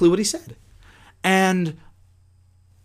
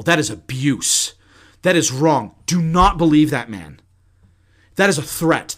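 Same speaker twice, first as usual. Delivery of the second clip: emphatic retold outrage, word by word; losing his cool. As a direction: imitate an outraged man hammering each point. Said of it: "just lost his cool".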